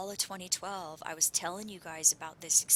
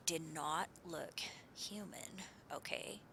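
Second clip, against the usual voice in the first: slow, frightened whisper; 9 dB quieter, slower than usual. Real, not acted. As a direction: whisper it slowly, spooked. Frightened secret reveal.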